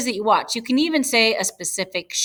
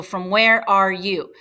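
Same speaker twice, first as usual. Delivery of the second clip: slow literal gloss; slower than usual. Shown as a demonstration.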